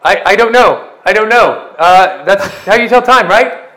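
a lost lunatic guessing; bewildered madman. Acted.

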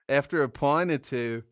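brief, clumsy mock Australian accent; half-hearted Australian impression; bad Australian accent. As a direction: try an Australian accent and give up on it. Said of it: "abandoning the Australian accent".

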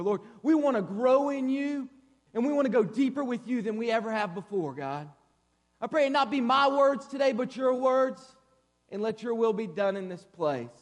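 earnest prayer, rising from hushed to fervent, then settling; congregational prayer. Real, not acted. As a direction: lead the room in heartfelt prayer.

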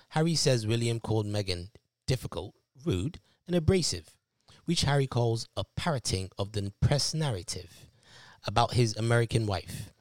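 reading aloud in an attempted British accent. Shown as a demonstration. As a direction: put on your best British accent for the excerpt. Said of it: "say it in my best British accent".

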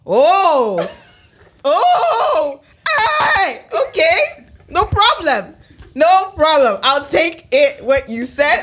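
high, loud laughing cry; laughing through tears. Real, not acted. Speaker recalling a friend's hurtful advice, laughing while crying. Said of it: "I start crying".

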